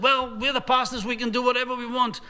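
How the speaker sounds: mock-smug pastor waving off the question; arrogant dismissive tone. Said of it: "what's that tone gonna do".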